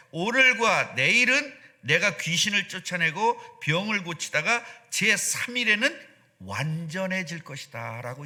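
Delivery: drawn out, stressing 내일은 with a rise; slow scripture reading. Shown as a demonstration. Preacher reading Jesus' reply slowly to the church. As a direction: read Jesus' words slowly and deliberately. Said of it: "자, 보세요".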